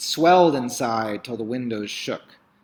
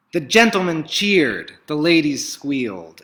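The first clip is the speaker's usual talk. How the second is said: higher, louder, cheering lift; excited narration; 4 semitones higher, 6 dB louder than usual. A narrator's reading. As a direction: ride the crowd's joy. Narrating the crowd's delight.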